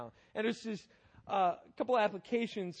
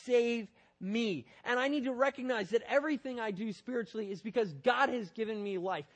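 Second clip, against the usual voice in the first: crying out to God; 3 semitones higher, 4 dB louder than usual. Retold or imitated. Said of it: "It's crying out".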